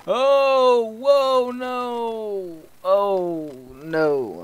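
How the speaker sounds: high, loud panicked yelps; panicked cry. Real, not acted. Player catching fire in game, panicked cry. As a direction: cry out as everything goes wrong.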